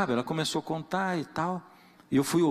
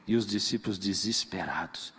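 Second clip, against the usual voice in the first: hushed; 7 semitones lower, 4 dB quieter than usual. Real, not acted. Hushed reflection.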